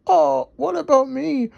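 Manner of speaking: high grumbling little mixer voice. Acted. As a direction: complain a bit, up high. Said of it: "grumbled Dizzy".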